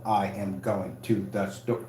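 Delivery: slow, even robot voice. Retold or imitated. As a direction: read it out like a robot. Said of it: "You had to talk like a robot".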